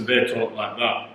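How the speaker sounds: Stark-style northern English speech; northern English accent. Shown as a demonstration. Showing how Game of Thrones northerners talk, northern English accent. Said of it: "who are northerners".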